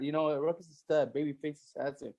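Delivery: low, fast, offhand bro voice; frat bro. Retold or imitated. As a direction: toss it off like a cocky bro. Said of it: "And like".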